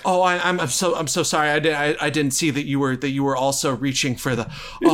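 nervous, tripping over her words; flustered stammering. Acted. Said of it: "is also kind of stammering".

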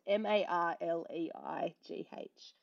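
slow, letter by letter; spelled out slowly. Shown as a demonstration. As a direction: spell each letter clearly. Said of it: "I just wanna spell it out".

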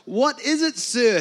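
high-pitched startled question; mock terror. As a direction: read it as a man terrified by an angel. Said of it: "stared at him in terror".

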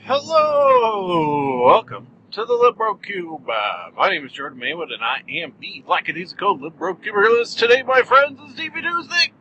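one long showy breath, straining upward at the end; all in one breath. Real, not acted. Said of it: "got that all out in one breath".

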